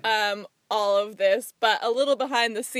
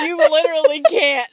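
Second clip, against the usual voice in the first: laughing; 5 semitones higher, 7 dB louder than usual. Real, not acted. Friend still laughing at reader.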